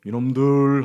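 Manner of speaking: a loud scolding shout; scolding God. Retold or imitated. Preacher voicing God scolding the Israelites, loud. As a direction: bark it like an angry father. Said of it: "하고는 하나님께서 징계를 내리세요".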